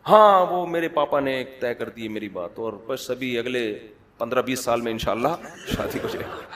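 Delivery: offhand, quietly played-down news, fading to a near laugh; mock serious. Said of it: "بڑی سنجیدگی کے ساتھ".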